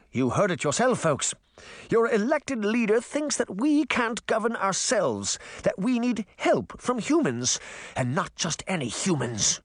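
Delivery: high, raging imperious voice; raging queen. Acted. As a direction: stir the crowd to fury. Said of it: "the Queen raged".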